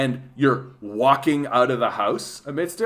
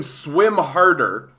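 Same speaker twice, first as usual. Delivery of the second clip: mock scream; 5 dB louder, much slower than usual. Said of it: "I think you would just scream".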